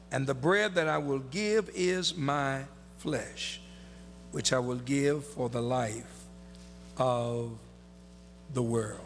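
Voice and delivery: deliberate preaching delivery with long pauses; scripture recitation. Acted. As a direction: stretch the key words and let each phrase land. Recites the verse again.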